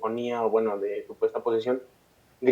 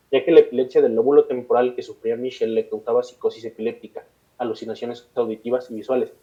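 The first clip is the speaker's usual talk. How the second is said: measured read-aloud storytelling; steady podcast narrator reading; scripted documentary narration. A narrator's reading. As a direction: narrate a dark case history from a script. Reads a prepared case account aloud.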